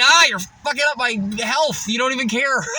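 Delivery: mock angry shout back; mock outrage. Telling off the salesman, mock angry shout. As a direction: yell it as a fake complaint. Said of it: "I was like".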